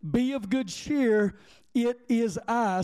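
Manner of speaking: Be of good cheer said slowly and high; solemn, deliberate reading of Jesus' words; slow emphatic reading. Shown as a demonstration. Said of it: "I want you to hear this again".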